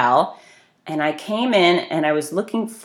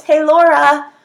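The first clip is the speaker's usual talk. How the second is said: louder, higher call, held back from a full yell; half-yell; 10 semitones higher, 7 dB louder, slower than usual. Retold or imitated. Chasing someone across a fancy lobby, loud high call. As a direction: call out after her while trying not to shout. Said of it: "I'm trying not to yell too loud".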